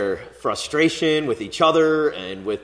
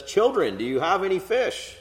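raised, carrying call from the shore; calling out to the boat; 8 semitones higher than usual. Acted. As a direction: call out high across the water. Jesus calls to disciples from shore.

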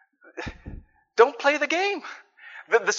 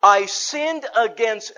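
mock blaming start; 3 semitones higher, 4 dB louder, much slower than usual. Shown as a demonstration. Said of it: "No, no, no".

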